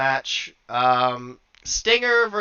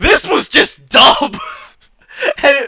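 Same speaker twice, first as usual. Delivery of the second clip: loud, high-pitched incredulous rant, laughing; exasperated rant; 5 semitones higher, 7 dB louder than usual. Real, not acted. Incredulous rant about baffling finish.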